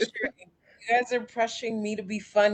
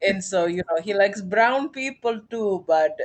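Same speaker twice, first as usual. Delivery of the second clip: put-on a light Indian accent for Prince Sanjay; playful Indian accent, not overdone. Doing the Indian guy her friends asked for, in an Indian accent. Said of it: "I like the Indian accent".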